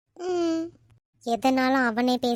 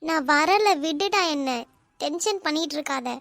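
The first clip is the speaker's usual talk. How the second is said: angry refusal; 3 dB louder than usual. Acted. Girl refusing angrily.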